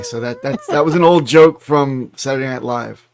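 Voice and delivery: ordinary talk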